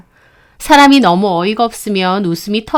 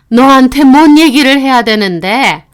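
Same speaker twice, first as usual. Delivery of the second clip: scoffing laugh; 4 dB louder than usual. Acted. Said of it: "그 말에 어머님은 코웃음을 치더라고요".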